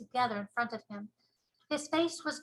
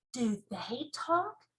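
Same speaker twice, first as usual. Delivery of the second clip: put-on little girl voice; much slower than usual.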